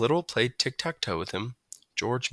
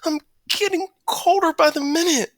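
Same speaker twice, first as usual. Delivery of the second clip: high calls for help; 5 dB louder than usual. A narrator's reading. Trapped, calling for help.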